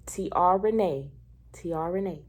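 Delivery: "T R Renee" announced loud and distinct, then easing; "T R Renee" repeated deliberately, starting loud; name said emphatically. Shown as a demonstration. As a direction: spell it out for the back row: "T R Renee". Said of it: "say it three times for".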